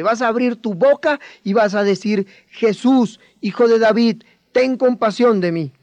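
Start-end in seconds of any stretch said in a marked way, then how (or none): 2.5-5.7 a bit louder, calling out for attention; louder plea. Shown as a demonstration. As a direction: call to him so he turns. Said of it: "vas a hablar más fuerte". (súplica en voz más alta)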